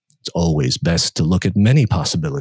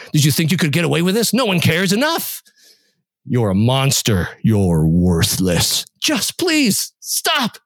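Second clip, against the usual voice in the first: overlapping accusing voices spiralling up, pleading to stop; cacophony of voices; 5 semitones higher than usual. Acted. Voices in his head attacking him, panicked and much higher. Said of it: "The cacophony stopped".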